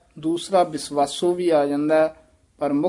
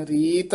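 ਰੀਤ set apart with a short stop; brief halt. Shown as a demonstration. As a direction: hang briefly after ਰੀਤ. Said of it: "ਇੱਥੇ ਯਮਕ ਲਾ ਦੇਣੀ ਹੈ".

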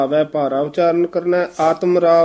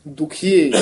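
ਦੁਖੀਏ set apart with a short stop; brief pause after word. Shown as a demonstration. Teacher showing the reciter, ਦੁਖੀਏ followed by a pause. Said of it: "ਇੱਥੇ ਯਮਕ ਲਾ ਦੇਣੀ".

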